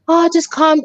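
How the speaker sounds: lightly mocking, falsely soothing quote; passive-aggressive. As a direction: imitate someone patronisingly soothing. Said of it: "passive aggressive kind of".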